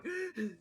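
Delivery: short, high acted gasp; overwhelmed gasp. Fan nearly passing out, mock overwhelmed gasp. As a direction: imitate gasping as if about to pass out. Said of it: "'cause I'm going".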